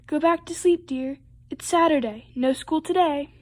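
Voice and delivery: mild storybook holler; calling mother. Acted. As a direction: call it out to a child in another room. Mother calling back to Froggy.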